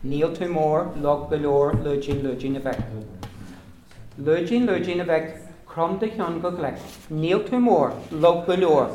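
recited like a nursery rhyme; children's rhyme. Shown as a demonstration. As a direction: chant the finger rhyme for kids. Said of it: "a wee poem we have in Irish".

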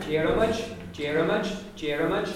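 Jermut with a short neutral vowel between the R and the M. Shown as a demonstration. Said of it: "an apathetic vowel there between".

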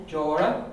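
jora with an open O. Shown as a demonstration. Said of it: "An open O".

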